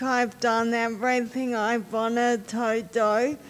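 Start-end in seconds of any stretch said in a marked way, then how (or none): 1.8-3.4 laughing. Real, not acted. Laughing at her own confession.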